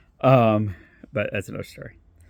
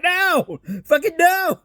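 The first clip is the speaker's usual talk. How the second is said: emphatic refusal; 11 semitones higher, slower than usual. Retold or imitated. Refusing friend's challenge.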